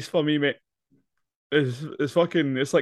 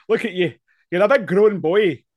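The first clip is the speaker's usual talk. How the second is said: higher and louder, playful telling-off; mock scolding; 6 semitones higher, 4 dB louder than usual. Friend mock-lecturing the character about wasting time, playful scold. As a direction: tease him like a cross parent.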